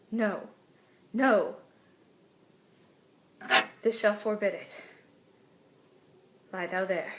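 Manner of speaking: worried, scared stage soliloquy; understated dread, thinking through each fear with pauses; Juliet. Acted. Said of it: "scared kind of mixture".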